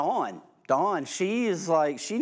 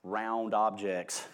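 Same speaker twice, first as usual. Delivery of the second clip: slow, deliberate; 4 semitones lower, much slower than usual. Real, not acted.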